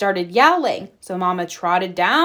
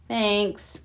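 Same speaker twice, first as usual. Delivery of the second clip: croaked; 5 dB quieter than usual. A narrator's reading. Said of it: "croaked Sister".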